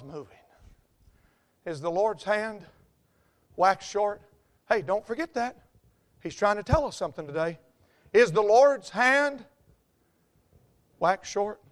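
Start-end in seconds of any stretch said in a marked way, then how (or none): 1.7-4.2 hushed question. Real, not acted. Repeats the verse, first quietly. 8.1-11.6 slow, weighty question. Real, not acted. Repeats the verse, slower and fuller.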